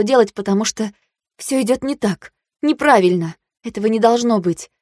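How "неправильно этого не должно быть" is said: ordinary delivery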